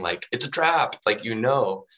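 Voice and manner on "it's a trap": higher, louder mock yell of warning; Admiral Akbar yelling. Preacher quoting a movie meme about Jesus' trap, mock yell. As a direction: belt it like the famous Star Wars warning. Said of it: "the meme of Admiral Akbar from Star Wars yelling".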